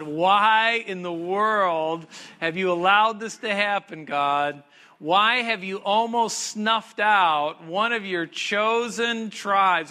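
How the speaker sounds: 1 people's lament to God. Retold or imitated. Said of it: "they ask God".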